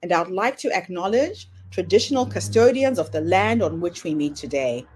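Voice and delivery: polished announcer read over music; podcast intro read. Acted. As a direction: welcome listeners like a show host.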